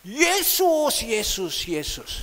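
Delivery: high, loud jeering call from afar; mock the name across the pool; a neighbour's taunting yell, fading; mocking shout. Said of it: "Dia katakan".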